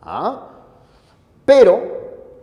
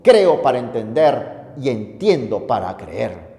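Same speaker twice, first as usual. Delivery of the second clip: voicing Augustine; 4 semitones lower than usual. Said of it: "San Agustín, digo".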